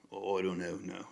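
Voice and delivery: a weak attempt at a British accent, barely shifted; bad British accent. YouTuber testing a British accent on viewers, badly faked British accent. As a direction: try a British accent and fall short. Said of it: "I was trying to do a British accent".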